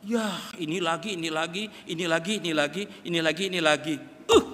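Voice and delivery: ulang-ulang dengan nada naik kesal; menggerutu kecewa. Retold or imitated. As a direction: keluhkan lauk yang sama, pelan mulanya. Suami kecewa lihat makanan. (suami bosan menggerutu pada lauk yang sama)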